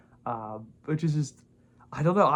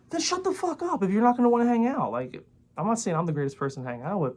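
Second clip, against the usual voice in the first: retold angry retort; 5 semitones higher than usual. Retold telling off lonely friend.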